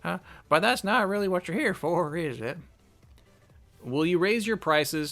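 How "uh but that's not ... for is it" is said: put-on old lady voice. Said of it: "we can do an old lady voice".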